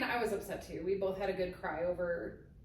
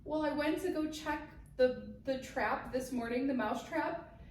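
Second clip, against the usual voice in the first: high mock-upset confession, slowing at the end; hammed-up distress, tipping into the teller's laughter; imitated tearfulness; 5 semitones higher than usual. Husband confessing he found the mouse, mock tearful. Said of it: "this man is in tears".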